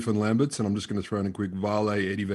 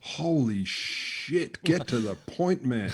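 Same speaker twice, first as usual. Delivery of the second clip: mock exasperation; 3 semitones higher, much slower than usual. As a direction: sigh it out, bored of the rambling. Mock exasperation at long text.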